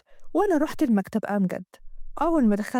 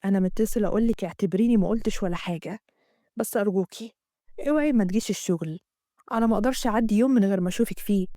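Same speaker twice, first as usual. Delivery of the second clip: Amgad; 4 semitones lower than usual. Acted. Amgad voiced in the story.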